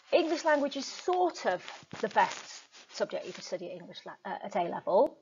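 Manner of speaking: hedged statement. Shown as a demonstration. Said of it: "you can see that weakens it".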